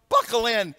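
mock urgent attendant call. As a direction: call it out like a hurried flight attendant. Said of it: "saw the flight attendants run".

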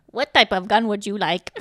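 lightly imitated computer prompt; mock an old desktop computer talking. Film's computer asks about buying a gun, mock computer voice. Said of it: "What every accent I'm trying to do, even computer accent".

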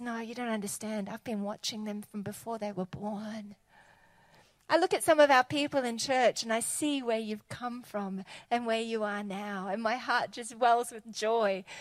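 quiet, tender divine reassurance; tender God. Retold or imitated. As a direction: speak softly like a loving parent. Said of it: "God looks at them and says".

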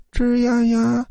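high, drawn-out creak; creaking door. A narrator's reading. Old woman pushing the dorm door, high creak. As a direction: imitate a door slowly creaking open. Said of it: "门被推开了".

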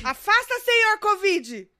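mock exorcist. Blessing a sneeze, mock exorcism.

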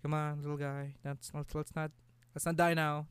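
hushed, gentle coaxing; soothing a baby. Retold or imitated. Calming the baby after drowning, soft soothing. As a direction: coax the little guy softly. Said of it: "I'm like".

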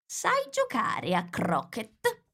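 high, slow, drawn-out question; imperious queen. A narrator's reading. Queen questions Alice on croquet, imperious and slow. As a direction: demand an answer, stretching the words.

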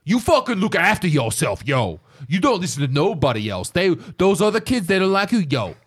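a light tough-guy pep talk, mostly his own voice; mock hardcore motivation, fading to a whisper; Mister T impression. Mister T coaching scared eighties kids, in a light tough voice. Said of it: "Mister T like".

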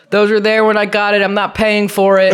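high, insistent protest; acted-out indignant refusal; retold firm refusal. Retold dispute over dents.

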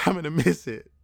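burping while talking; words broken by a burp. Real, not acted. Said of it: "Sorry, I'm, like, burping and fucking stomach growling".

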